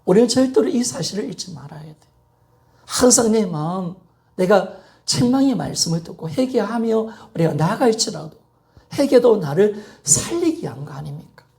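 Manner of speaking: ordinary talk, nothing marked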